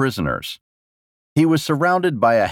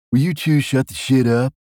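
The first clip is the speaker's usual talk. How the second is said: slightly raised, higher commanding voice; irritated command; 4 semitones higher than usual. Acted. King silencing two bickering guards, irritated command. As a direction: cut off the squabble with an order. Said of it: "commanded Jesden, quieting them down".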